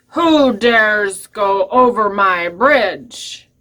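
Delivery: slow, drawn-out troll challenge; lightly voiced troll. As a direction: stretch it out as a mildly menacing troll. Troll challenges the little goat.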